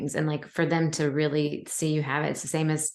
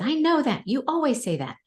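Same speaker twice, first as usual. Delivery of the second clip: imitating annoyed son; 9 semitones higher than usual. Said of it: "He said".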